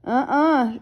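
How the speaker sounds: high refusal through a mouthful; muffled little-sister no; mouth full. A narrator's reading. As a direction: refuse with teeth clamped on something. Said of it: "she said through a mouthful".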